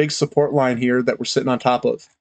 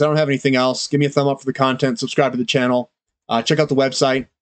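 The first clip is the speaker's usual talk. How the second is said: stuffy head cold voice; congested voice. Real, not acted. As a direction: speak with a blocked nose from a cold. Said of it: "so I'm kind of congested in the head".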